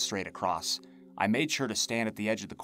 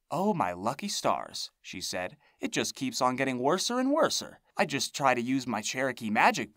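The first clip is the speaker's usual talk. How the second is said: lamenting hag voice; 4 semitones higher than usual. Acted. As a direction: moan about it like a witch.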